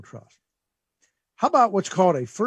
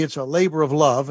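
labor leaned on, a touch louder; stress on labor; 4 dB louder than usual. Shown as a demonstration. Host explaining caregiving to radio listeners, leaning on labor. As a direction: give the word labor weight. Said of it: "And I stress the word labor".

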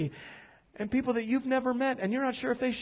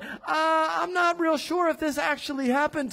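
high-pitched mock uncertainty; Thomas, doubtful; 5 semitones higher than usual. Preacher mimics Thomas in doubt, high hesitant voice. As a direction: voice the doubter, hedging. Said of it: "He goes from doubt".

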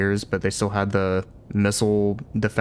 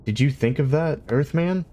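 demanding; 5 semitones higher than usual. Acted. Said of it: "he demanded".

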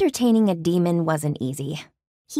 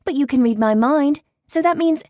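rising protest; 10 semitones higher, 5 dB louder than usual. Acted.

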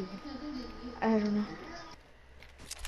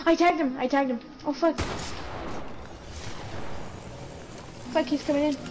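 excited shouting; 4 semitones higher, faster than usual. Real, not acted. Fight breaks out, excited yelling.

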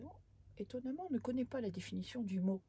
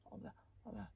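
stammering fear; 2 semitones higher, much faster than usual. Acted. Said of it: "bredouille le géant".

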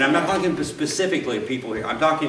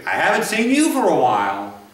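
indicting remark; 2 semitones higher than usual. Retold or imitated. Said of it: "I've heard this too".

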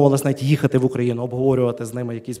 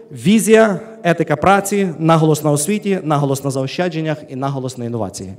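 emphatic summing up; 3 dB louder than usual. Real, not acted. Speaker wrapping up his talk to the panel, emphatic and loud. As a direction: drive home the final summary list. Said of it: "я підсумовую".

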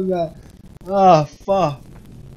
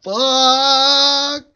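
laughing; 7 semitones higher than usual. Real, not acted. Big game success.

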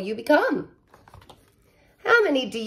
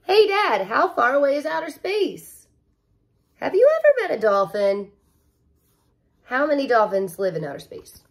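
put-on higher, eager child questions; kid asking dad; 4 semitones higher than usual. Penny asks her dad questions, eager child voice.

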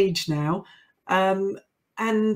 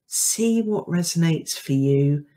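measured, unhurried sign-off narration; podcast outro read. Acted. Host thanking listeners and inviting reflection, measured outro read. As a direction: deliver a scripted outro, phrase by phrase.

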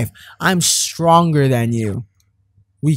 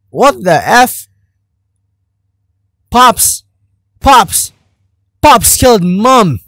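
put-on British accent, louder and slow at the end; 6 semitones higher, 7 dB louder, slower than usual. Gamer shouting the news in a hammed-up British accent. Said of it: "I said that in a very British way".

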